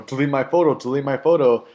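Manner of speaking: half-hammed repeat of an angry order; retold angry demand.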